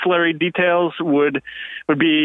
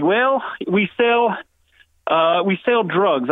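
put-on slow, higher, drawn-out Southern hillbilly accent; mock the guest's heavy Southern accent, dragging each word; 3 semitones higher, much slower than usual. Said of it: "the worst Southern accent".

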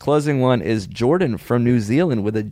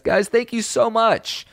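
announcer voice; 12 semitones higher, slower than usual. Acted. Podcast outro address.

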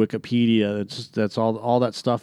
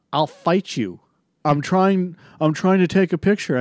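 higher, cocky retold back-talk; imitating the kid; 7 semitones higher than usual. Kid filming in theater talks back, lightly voiced cocky teen. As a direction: sass back like a defiant teen. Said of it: "the first words out of his mouth were".

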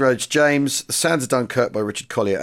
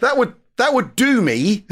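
laughing; 10 semitones higher than usual. Real, not acted. Laughs at grim story.

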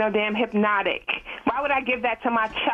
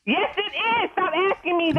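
exasperated; 8 semitones higher than usual. Real, not acted. Fed up with repeated question.

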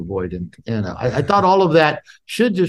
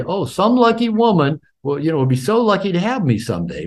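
high-pitched mock flattery; imitated gushing; 8 semitones higher than usual. Women consoling a single nice guy, imitated gushing. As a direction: imitate women sweetly talking up a man.

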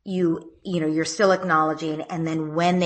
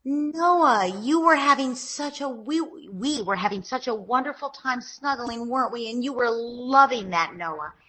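higher, gentle parent voice; parent talking to child; 5 semitones higher than usual. Shown as a demonstration. Mother soothing her son after the spat, higher gentle voice. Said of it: "So you'd say".

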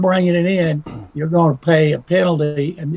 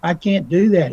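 higher, mock-shocked denial from a sly agent; mock innocent agent; 4 semitones higher than usual. Agent to recruit, faking innocence about illegal payments, mock-shocked and higher. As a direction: feign being shocked at the very idea. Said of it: "they're gonna say".

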